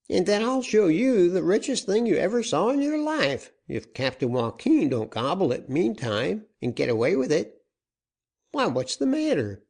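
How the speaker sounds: high, eager caller voice; excited caller. A narrator's reading. Caller telling the banker of riches, eager and high. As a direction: boast with rising excitement, then startle.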